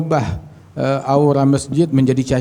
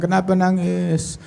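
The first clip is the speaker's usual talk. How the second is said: softly drawn-out, higher question; mildly acted soothing inquiry; tender concern; 5 semitones higher, 4 dB quieter than usual. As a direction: gently ask someone in tears, slowly. Retold concerned question to weeping Hasan.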